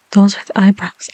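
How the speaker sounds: whisper. Real, not acted. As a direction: breathe the words gently. ASMR whisper.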